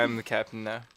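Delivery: put-on West African accent. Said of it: "In the African accent?".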